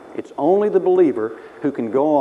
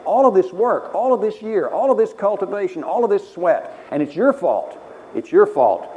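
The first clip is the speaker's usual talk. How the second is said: higher, louder bitter accusation; accusing rant; 6 semitones higher, 3 dB louder than usual. Retold or imitated. Cain accusing Abel in his mind, bitter and loud. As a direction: hurl the blame at Abel. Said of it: "he's accusing in his mind".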